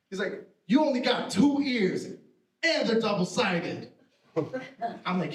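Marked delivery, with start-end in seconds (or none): 0.7-3.9 imitated scolding, drawn out at the end; indignant uncle. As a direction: argue it slowly like an aggrieved uncle. Jail uncle's acted quarrel.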